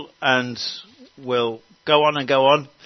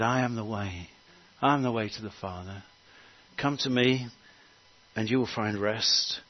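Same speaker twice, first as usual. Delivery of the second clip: softer, gentle invitation to come; tender Jesus; 2 semitones lower, 3 dB quieter than usual. Acted. Jesus inviting the weary to find rest, soft and tender. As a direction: say it softly, like opening your arms. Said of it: "and he said".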